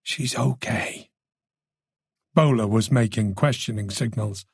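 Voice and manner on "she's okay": slow, soft, weary relief; tired, softened reassurance; relieved, exhausted. A narrator's reading. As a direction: let it out slowly, worn out but relieved. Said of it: "He sounded relieved, exhausted".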